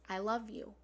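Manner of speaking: rising heartfelt chant; fervent mantra. Shown as a demonstration. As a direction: call it out with devotion. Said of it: "the fourth line is".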